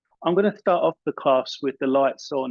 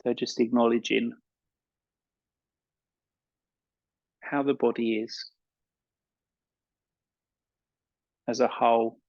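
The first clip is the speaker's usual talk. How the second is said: calm meditation guide with long pauses; unhurried guiding voice, leaving space between phrases; guided meditation. Acted. Yoga teacher settling an evening class into relaxation, guided meditation.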